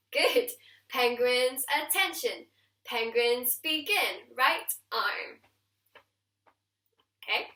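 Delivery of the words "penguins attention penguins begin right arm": penguin commander call. Shown as a demonstration. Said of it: "And then we go".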